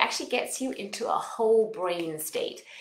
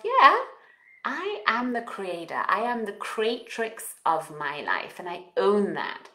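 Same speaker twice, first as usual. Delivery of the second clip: affirmation. Shown as a demonstration. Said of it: "you can say to yourself".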